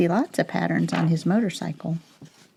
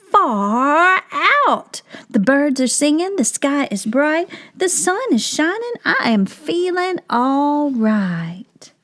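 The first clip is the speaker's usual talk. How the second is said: much higher, louder excited cry; delighted turtle; 7 semitones higher, 3 dB louder than usual. Acted. Turtle amazed by the sunglasses, much higher excited cry. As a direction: shout it out with wonder.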